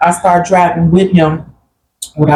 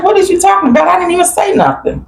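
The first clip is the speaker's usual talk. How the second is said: incredulous protest. Retold or imitated. Retelling her own protest.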